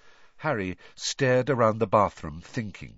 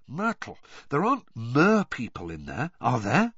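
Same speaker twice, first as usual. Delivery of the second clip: put-on teen boy voice; 2 semitones higher, 3 dB louder than usual. Harry voiced by narrator.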